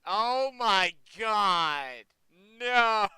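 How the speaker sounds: very loud, drawn-out disbelief; shocked outburst. Real, not acted. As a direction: cry out in amused horror. Shocked by the revealed spoiler.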